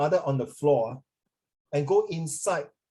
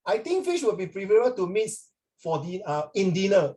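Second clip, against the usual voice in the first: mocking stiff reading; 3 semitones higher than usual. Shown as a demonstration. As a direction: parody a pupil's stiff textbook English. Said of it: "you talk to your granny like that".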